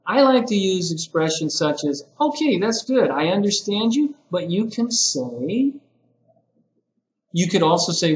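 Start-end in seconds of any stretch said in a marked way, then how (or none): 2.2-5.7 higher, lilting, kindly correction; a supportive lift in the voice; encouraging teacher correction. Shown as a demonstration. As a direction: affirm first, then lead gently into the correction. Models a gentle teacher correction.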